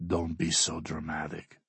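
dismissive. A narrator's reading. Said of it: "Alexei says".

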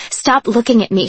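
half-voiced yell at the listener; a restrained retold scream, not full force; mild mock scream. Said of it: "she'd scream".

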